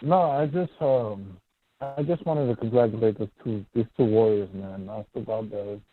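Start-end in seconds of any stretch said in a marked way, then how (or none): 1.8-5.8 muffled phone audio. Real, not acted. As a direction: voice muffled on the line. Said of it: "You sound muffled".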